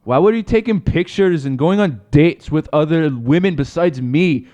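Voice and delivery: mock accusing wife, put-on accent; Conor's wife. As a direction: interrogate him as a wronged wife. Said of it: "you Connor's wife".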